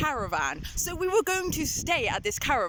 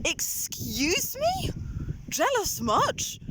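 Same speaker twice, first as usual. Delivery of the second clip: sassy; 7 semitones higher, much slower than usual. Real, not acted. Sassy retort to stepbrother.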